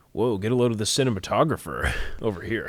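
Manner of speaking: a lightly voiced wowed viewer, laughing; mock viewer. Film fan mocking an overdone shot, laughing. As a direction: gawk at the showy camerawork. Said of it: "and then it's like".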